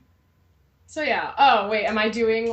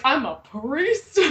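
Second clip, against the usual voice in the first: slow, raised, drawn-out mock priest line; imitated ghetto priest; 4 semitones higher, slower than usual. Reminding co-host of an old review, light mock priest voice. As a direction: lightly mimic the co-host's priest bit, stretching it out. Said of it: "you kind of did it".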